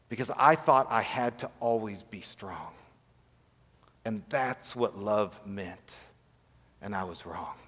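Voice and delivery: broken confession. Real, not acted. Pastor confessing to his church how wrong he was, low and hushed. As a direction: let the admission fall almost to nothing.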